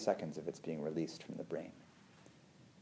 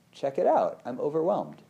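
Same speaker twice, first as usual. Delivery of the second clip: curious excited notice; 5 semitones higher, 3 dB louder than usual. Pretend.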